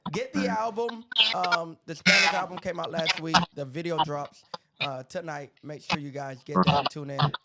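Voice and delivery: glitchy robot-sounding stream audio; robotic, echoing voice from the bad connection. Real, not acted. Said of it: "I don't know why I sound like a robot".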